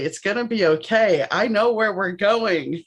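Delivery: reassuring. Retold or imitated. Comforting her younger self.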